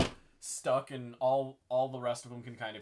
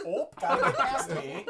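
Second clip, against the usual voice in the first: higher, louder Minnesotan apology; Minnesotan ope; 9 semitones higher, 6 dB louder than usual. Acted. Game master imagining boulder shimmying through, Minnesotan accent. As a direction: squeeze past with a Minnesotan lilt. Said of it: "do a little ope".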